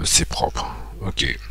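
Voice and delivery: whispered to himself; "c'est propre" breathed out as a soft whisper. Real, not acted. Muttering satisfied self-check.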